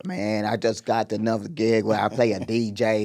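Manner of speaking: slow, attempted British accent; Idris Elba. Actor telling Terrence about a gig, mock British accent. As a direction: take it slowly in a mock British voice. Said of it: "what's going on with your Idris Elba".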